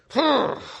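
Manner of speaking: high, forceful burst of breath; sudden angry puff of air; explosive huff. Acted. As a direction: huff like a pot boiling over. Acting out wrath boiling over.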